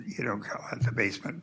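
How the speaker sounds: hushed correction under his breath; whispered self-correction; whispered aside. Real, not acted.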